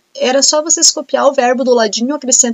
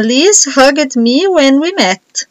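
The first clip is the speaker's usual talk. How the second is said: very slow, word-by-word dictation read; much slower than usual. Shown as a demonstration. Teacher dictating the sentence to students, very slowly. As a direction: dictate it slowly so everyone can write.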